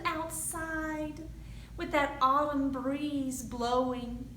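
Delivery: put-on lively read-aloud for young kids; storytime narration. A narrator's reading. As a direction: tell it like a picture book at the library. Reads picture book to children.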